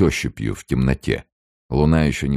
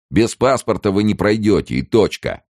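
lightly voiced gruff official, raised; rough voice; 8 semitones higher, 4 dB louder than usual. A narrator's reading. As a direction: refuse roughly, with finality. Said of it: "отвечал ему грубый голос".

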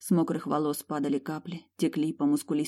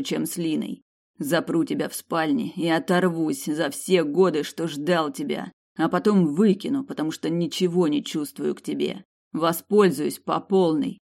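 lightly voiced man, cold and threatening; menacing mercenary; 3 dB louder than usual. Mercenary threatens the spoiled girl, cold menace. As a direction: threaten her, cold and cruel.

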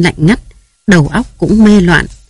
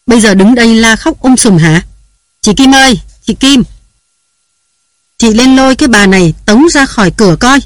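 higher, harsher angry voice calling across the house; angry yelling; 5 semitones higher than usual. Acted. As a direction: bark orders in a rage. Angry master yells for servant. (chủ nhà quát gọi chị Kim, giận dữ)

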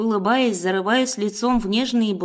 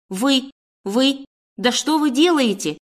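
breathless strained cry, pitch higher; choked cry; 4 semitones higher than usual. A narrator's reading. Heroine shocked as boss kisses her, breathless choked cry. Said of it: "задыхаясь, сдавленно кричу я".

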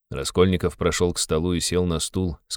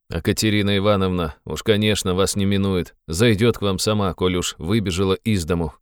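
grumbling. Acted. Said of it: "брюзгливо прибавил он".

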